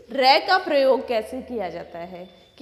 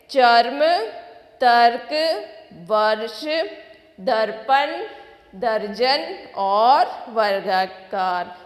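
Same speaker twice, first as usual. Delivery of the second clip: कर्म, फर्क, हर्ष repeated loud, each word on its own; loud repetition drill; slower than usual. Shown as a demonstration. Teacher repeats the word list for the children. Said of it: "फिर से दोहराएंगे".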